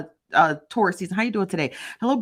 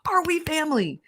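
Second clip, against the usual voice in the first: laughing; 11 semitones higher than usual. Real, not acted. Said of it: "playful question to chat".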